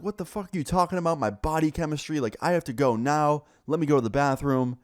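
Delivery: mildly mad retort, starting high; mad, almost yelling. Retold or imitated. Student arguing with teacher over the bathroom, mock indignant. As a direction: imitate an indignant student arguing back, short of a yell. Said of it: "he's almost yelling".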